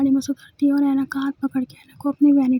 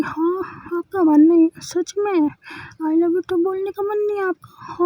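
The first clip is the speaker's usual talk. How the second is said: playful, higher, drawn-out mock surprise; teasing disbelief; 4 semitones higher, slower than usual. Wife teasing her sulking wife, playful mock shock. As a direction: coax her by pretending to be shocked.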